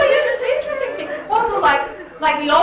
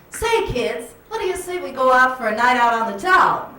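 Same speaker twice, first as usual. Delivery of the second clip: 1940s movie talk. Retold or imitated. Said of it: "you'd say".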